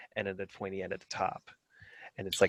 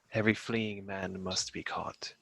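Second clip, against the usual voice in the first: menacing whisper; 3 dB quieter than usual. Acted. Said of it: "really deep voice".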